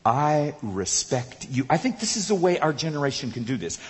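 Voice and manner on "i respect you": reverent demo. Shown as a demonstration. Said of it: "I want you to say".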